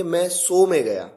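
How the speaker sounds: शो wrongly said as "so", with plain s; mispronounced with S. Shown as a demonstration. Teacher showing a laughable learner mistake, शो said as "so". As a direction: swap the sh of शो for s. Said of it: "pronunciation बहुत major mistake है".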